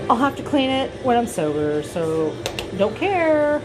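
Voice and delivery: tipsy, carefree shrug. Real, not acted. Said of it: "I'm obviously intoxicated".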